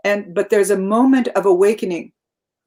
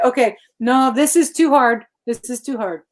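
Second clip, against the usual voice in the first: a hint of a whiny protest, higher pitch; mock complaining; 4 semitones higher than usual. Guest mimicking someone overwhelmed by a task, mildly whiny. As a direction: play the person giving up on a hard task. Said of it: "than to say".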